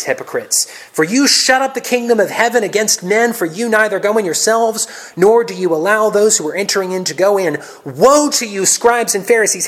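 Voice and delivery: loud, high denunciation of the Pharisees; berating. Acted. Jesus berates the scribes and Pharisees, loud and high. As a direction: thunder the woes at them. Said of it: "Jesus appears to berate the Pharisees".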